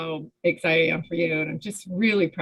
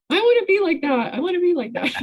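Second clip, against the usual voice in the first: higher and louder, eager and wistful; longing mock exclamation; 12 semitones higher, 4 dB louder, faster than usual. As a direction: play a younger self gushing with admiration. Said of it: "And I'm like".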